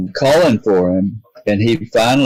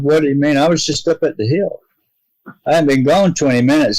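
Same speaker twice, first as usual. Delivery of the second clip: higher, quicker baffled insistence; confused protest; 5 semitones higher, faster than usual. Retold or imitated. Father insisting to friends he was gone minutes, baffled and higher. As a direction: push back in disbelief, voice lifted up and hurrying. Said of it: "I was confused".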